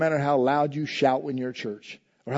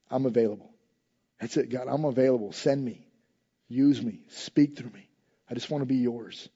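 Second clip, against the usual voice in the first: softer, hushed prayer of surrender; quiet surrender prayer; 4 semitones lower than usual. Retold or imitated. Pastor retelling his own prayer to God, softly surrendering. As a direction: lay it down before God quietly. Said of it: "I said".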